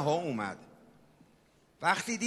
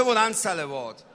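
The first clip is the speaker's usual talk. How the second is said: calling out. Real, not acted. Preacher calls crowd to salute.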